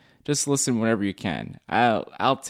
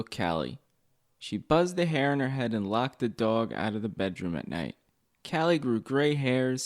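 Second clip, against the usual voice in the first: measured, subdued verse reading; poem recital; 4 dB quieter than usual. Acted. Poet telling of a neglected poodle, subdued recital. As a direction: read the sad little tale with restraint. Reads own poem aloud.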